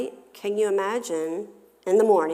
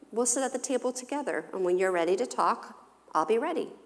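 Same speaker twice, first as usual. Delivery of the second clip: calm, patient parent; 5 semitones higher, faster than usual. Shown as a demonstration. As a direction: gently send the child to think it over. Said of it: "by slowing down and saying".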